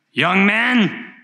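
high, sudden preacher's call; single out one listener with a high-pitched cry; old preacher calling out. Acted. Old shoemaker addresses young Spurgeon in the pews, high calling voice. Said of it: "he looked right at Charles Spurgeon".

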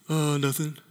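low, soft, offhand answer; lightly acted coy reply. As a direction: play it down quietly. Acted preacher answering admirer.

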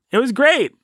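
high-pitched fake praise; sarcastic. Shown as a demonstration. Host replaying the false praise of the podcast, sarcastic. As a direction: pitch GREAT way up, insincerely. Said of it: "the opposite. We're all saying".

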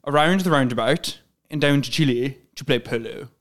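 a light go at Prince William's posh English accent. Shown as a demonstration. Host demos the actor's posh English phrase for cohost, lightly. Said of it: "let's see if I can get into it".

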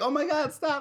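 high-pitched mock yell of panic; imitated yelling. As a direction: imitate someone yelling for it to stop. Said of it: "she was yelling".

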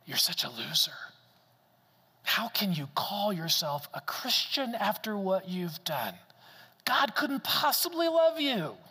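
lightly voiced inner accuser, sneering; a hint of a harsh inner critic; voice of shame. Preacher voicing shame's taunts to the congregation, mildly sneering. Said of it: "shame is that voice that says".

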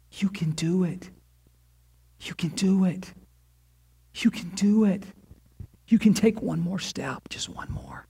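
breath-light, half-whispered coaxing; hushed encouragement. Acted. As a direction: urge them on softly, pausing between each push.

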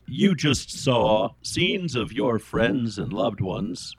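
slow, measured tree spirit; talking tree spirit. Acted. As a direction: speak slowly as a magical tree. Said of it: "the star lights up again and says".

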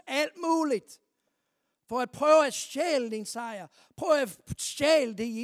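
rally them against the enemy; fervent preaching. Real, not acted. Preacher warning the congregation about the devil, fervent and loud. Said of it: "preacher warns of devil".

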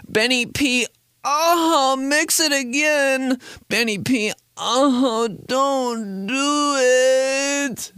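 high, very slow moaning voiceover; sultry DJ drop. Pretend. Host imagining a sexy DJ drop for himself. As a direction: breathe it out like a seductive DJ drop. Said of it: "they always have one that's like".

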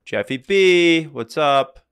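loud, slow drawn-out Jeffy B; mock bro greeting. Calling Jeff Bezos, a loud buddy-buddy greeting. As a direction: call him up like an old buddy. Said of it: "you going".

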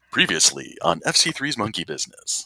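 announcer-style game show host voice; smooth show-intro announcer delivery. Shown as a demonstration. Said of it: "bring out my game show host voice".

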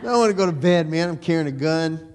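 a grown man chuckling as he plays his sleepy younger self; laughing while imitating a whiny kid. Preacher retelling his boyhood grumbling on the hunt, laughing. Retold childhood complaint at dawn.

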